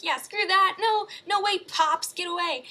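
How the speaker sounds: loud, high mock toddler tantrum. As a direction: throw a fit, shouting no at dad. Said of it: "Adam has a tantrum".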